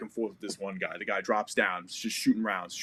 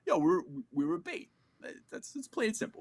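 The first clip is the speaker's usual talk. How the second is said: much higher, worked-up protest; indignant complaint; 4 dB quieter than usual. Retold or imitated. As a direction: spell out the outrage. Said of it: "I'm like".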